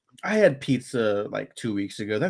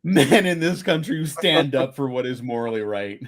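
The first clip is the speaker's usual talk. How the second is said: mock heroic speech; 4 semitones higher, 4 dB louder than usual. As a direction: deliver it like a pompous film narrator. Mock pompous speech, listener laughs.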